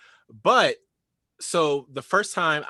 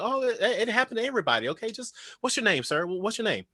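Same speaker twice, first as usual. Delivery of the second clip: easygoing retold reassurance, lightly higher; super chill; 8 semitones higher than usual. Star to the actor who bumped him, super chill. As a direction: brush it off casually, imitating a relaxed star. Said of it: "he's, like, super chill".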